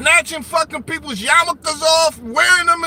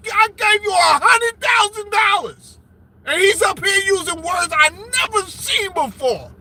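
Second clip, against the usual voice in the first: mock outraged shout; 4 semitones higher than usual. Mock-offended streamer shouting at a commenter. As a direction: rant as if cheated of money.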